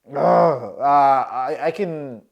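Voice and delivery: halting stammer; stuttering. Retold or imitated. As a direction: stumble over the words. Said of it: "I'm stuttering".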